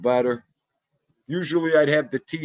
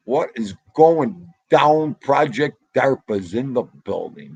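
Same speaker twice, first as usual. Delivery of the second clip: hyped greeting; 5 dB louder than usual. Real, not acted. Greeting a new viewer.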